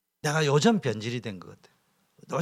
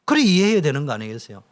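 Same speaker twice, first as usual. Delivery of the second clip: ordinary delivery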